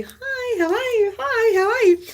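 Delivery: high, chirpy hellos over and over; high sing-song hellos to passers-by; cheery repeated greeting. Retold or imitated. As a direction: keep greeting brightly even with no reply. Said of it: "to everyone I say".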